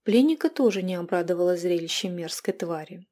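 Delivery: ordinary delivery, nothing marked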